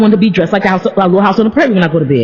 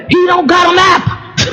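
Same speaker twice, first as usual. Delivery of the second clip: slow high wailing complaint; mock wail; 8 semitones higher, slower than usual. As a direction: drag it out like a whiny cry. Mock lament over no maps.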